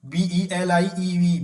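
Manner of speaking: letters drawn out one by one; teacher dictating the letters slowly; very slow spelling. Shown as a demonstration. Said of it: "बी live नहीं होता".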